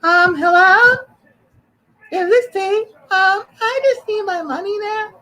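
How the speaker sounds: very high, slow falsetto; disguised voice. Pretend. Prank-calling friend's daughter in very high falsetto disguise. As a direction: squeak it out to disguise his voice. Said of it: "I don't know how to change my voice".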